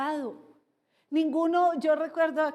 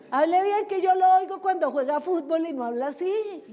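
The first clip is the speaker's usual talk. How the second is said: higher, louder telling-off; mock scolding; 3 semitones higher, 5 dB louder than usual. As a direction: scold a youngster for putting on a voice. Scolds youngsters for silly voice. (regaño en voz alta y aguda)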